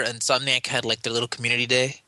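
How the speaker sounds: faint condescension on LITTLE; condescending. Real, not acted. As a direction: mildly belittle it on "little". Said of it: "I say little in a condescending tone of voice".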